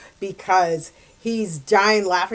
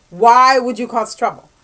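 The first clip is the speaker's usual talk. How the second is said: scolding manager; 3 semitones higher, 8 dB louder than usual. Retold or imitated. Manager scolds her quitting.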